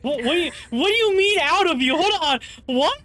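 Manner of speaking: high confused what; startled asking what he meant; surprised. Real, not acted. Confused by odd quote.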